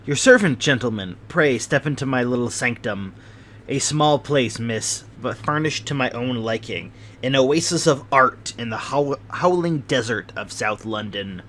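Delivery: fussy welcome into his rooms, lightly voiced; fidgety little host. Host invites guests into his sanctum, lightly voiced fidgety host. Sholto's voice held.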